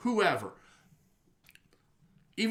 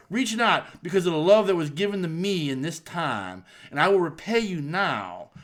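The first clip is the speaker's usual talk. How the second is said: Dusty Rhodes impression. Podcast host imitating Dusty's Hard Times promo for his cohost, lightly voiced wrestler promo. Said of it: "I'm trying to do a Dusty impression".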